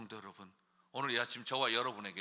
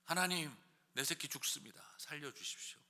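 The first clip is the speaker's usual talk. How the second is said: whispered desperate plea; 9 dB quieter than usual. Shown as a demonstration. Parent pleading quietly to God for a dying child, hushed. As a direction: beg quietly as if breaking. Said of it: "건방지게 기도하라는 것입니다".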